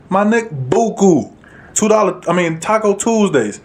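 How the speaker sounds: high, loud mocking stereotype voice. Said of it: "You just disrespecting the fuck out of him".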